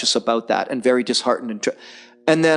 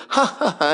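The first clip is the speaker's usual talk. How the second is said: imitated chuckle; 9 semitones higher than usual. Imitates the star laughing it off.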